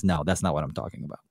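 low, quick, quiet dismissal; low flat rebuke, spoken fast; God's firm answer. Retold or imitated. God correcting the rule-seekers, low and quiet. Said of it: "And God says".

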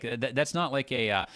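ordinary talk

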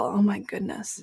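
breathy whispered pity; hushed aside of sympathy. Real, not acted. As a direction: whisper it, shaking your head. Pity for her hard life.

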